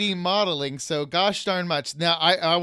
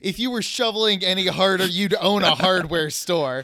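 hammed-up louder indignation; mock outrage; 3 dB louder than usual. Host rants at Matt over chips, hammed-up outrage. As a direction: play the wronged friend over the top.

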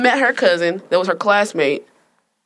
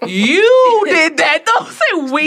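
high, laughing protest, slow to start; laughing denial; 8 semitones higher, 4 dB louder, much slower than usual. Real, not acted. Daughter laughing off her sister's accusation. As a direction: laugh it off and push the blame back.

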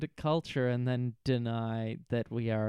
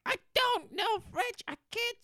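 much higher, whiny refusal; playing Shannon refusing to translate; mock Shannon whine. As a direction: whine like a spoiled girl. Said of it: "She spends a solid minute going like".

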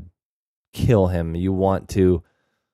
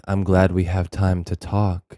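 creepy calm; slower than usual. Retold or imitated. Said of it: "He's real creepy".

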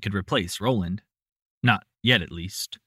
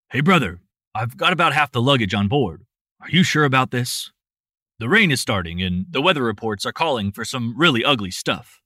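worried; 4 dB louder than usual. Acted. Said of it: "Rick sounded worried".

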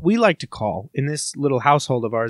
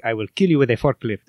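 lower, silly put-on menace; jokey threat; 4 semitones lower than usual. Shown as a demonstration. Brother showing a joking threat, playful. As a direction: make the threat obviously playful. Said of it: "saying that in a joking way".

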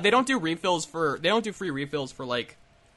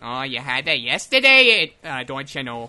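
mock posh British accent; 5 semitones lower, 4 dB louder than usual. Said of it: "are you doing accents?".

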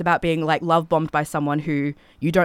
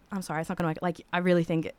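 gentle let-down; 5 dB quieter, faster than usual. Retold or imitated. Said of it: "nicely, 'cause I don't wanna hurt him".

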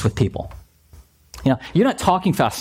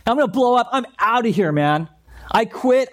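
mock storming off; 5 semitones higher than usual. Quitting in anger.

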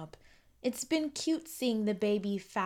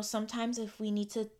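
usual speaking voice

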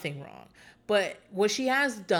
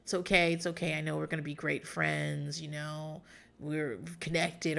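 soft, lower mock comforting; retold sweet reassurance; 5 semitones lower, 6 dB quieter than usual. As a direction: soothe them with easy sweet talk. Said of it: "tells her more sweet shit".

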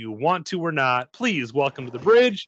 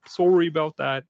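Canadian sorry; 2 semitones higher, 3 dB louder than usual. Retold or imitated. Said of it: "Sorry is my best Canadian impression".

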